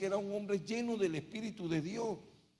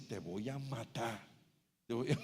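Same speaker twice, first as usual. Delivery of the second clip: devil's threat; 6 semitones lower, 6 dB quieter than usual. Acted. Preacher voicing the devil threatening to kill him, low quiet menace. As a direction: lower and soften it into a devilish threat. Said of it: "yo también oigo al diablo".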